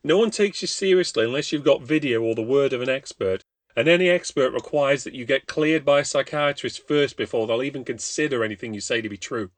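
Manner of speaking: a terrified man begging to be believed; desperate pleading. Acted. Desperate Craig pleads his case.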